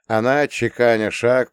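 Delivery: ordinary delivery, nothing marked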